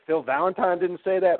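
lightly hammed-up shocked question; mock disbelief. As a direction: mimic someone who can't believe it. Mimics disbelieving followers.

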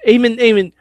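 hushed urgent whisper of a name. Real, not acted. Co-host whispering to hand over the mic. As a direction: whisper his name twice to cue him. Whispering to get his attention.

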